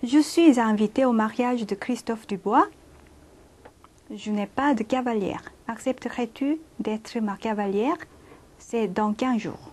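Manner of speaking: slow, careful French reading; unhurried model sentence read; slow dictation reading. Shown as a demonstration. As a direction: read each word out slowly for learners. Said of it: "on y va".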